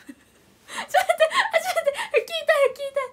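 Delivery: high squealing laughter; laughing hard. Real, not acted. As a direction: gasp the words through laughing. Cracking up mid-stream.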